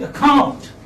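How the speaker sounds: "account" as uh-COUNT, first vowel short; teacher's corrected "account", light start and strong second syllable; second-syllable stress. Shown as a demonstration. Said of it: "giving stress on the second syllable".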